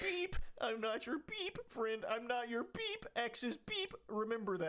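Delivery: hammed-up whiny man reading his texts; high mocking whine; mock angry boyfriend. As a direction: squeal the censored rant like a sulking kid.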